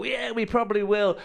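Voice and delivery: loud, very high, stretched-out comic proclamation; mock boastful cry. England team predicting glory before flying home, loud mock boast. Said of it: "And they go".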